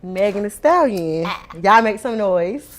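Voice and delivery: loud, slow hype intro; hype announcement. Real, not acted. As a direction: bring the guest on like an MC. Host hypes up her guest.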